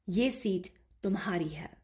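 whispered Hindi line, no voice. Shown as a demonstration. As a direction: breathe the line out unvoiced. Teacher repeats a story line.

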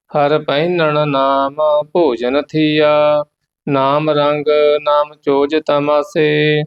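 measured, devout path recitation; scripture recitation. Acted. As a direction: recite the hymn steadily and reverently. (ਪਾਠ ਦਾ ਉਚਾਰਨ)

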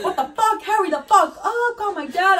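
high-pitched mock ordering; impatient demand. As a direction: imitate a friend urgently bossing people. Acts out friend demanding her dad.

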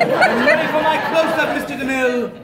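grand silent film diva voice; Gloria Swanson. Retold or imitated. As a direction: deliver it like a faded movie star. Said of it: "I feel like Gloria Swanson".

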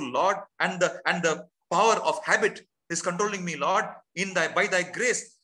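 earnest prayer. Acted. Pastor models a confession prayer for his congregation, pleading. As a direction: pray it like you mean every word.

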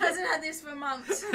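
slow words through laughter; amused, laugh-broken delivery. Real, not acted. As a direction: explain it while cracking up. Laughing at friend's excitement.

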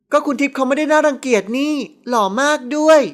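voiced impudent little sister; cheeky younger sister. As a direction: answer back like a cheeky girl. Girl cheekily answers sister.

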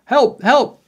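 two short, high shouts; shouted cry for help. A narrator's reading. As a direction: call out loudly for rescue. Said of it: "she shouted".

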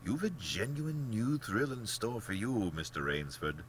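a hint of an amused, condescending general; lilting, lightly acted aristocratic hunter; gently patronize as the genial general; lightly voiced urbane general.

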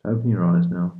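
calm hypnotist counting with long pauses; unhurried sleep-meditation guidance; guided meditation. Real, not acted. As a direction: lead a listener gently into relaxation, leaving space after each phrase.

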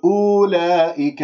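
wrongly voiced أولئك, first vowel of أولئك drawn out; wrong demo. Shown as a demonstration. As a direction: demonstrate a faulty أولئك with a long opening vowel. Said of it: "هذا خطأ".

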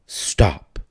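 urgent whisper; sharp whisper to the hungry young man; whispered stop. A narrator's reading. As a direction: hiss it to halt him. Old lady halts the eating.

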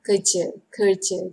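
kerja with a barely sounded R; very soft R. Shown as a demonstration. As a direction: let the R in kerja almost vanish. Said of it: "they have very soft R pronunciation".

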